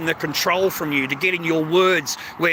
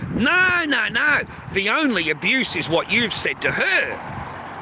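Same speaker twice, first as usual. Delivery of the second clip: mock official scolding; 4 semitones higher, slower than usual. Voicing interviewer's rebuttal.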